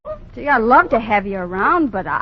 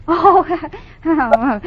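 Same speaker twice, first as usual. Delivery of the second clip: nervous laugh; 3 semitones higher than usual. Acted. Nervous laugh covering the baby.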